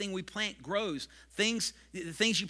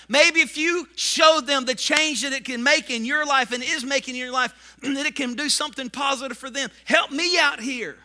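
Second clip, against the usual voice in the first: exasperated plea; 6 semitones higher, 8 dB louder than usual. Retold or imitated. Pastor's plea to parents.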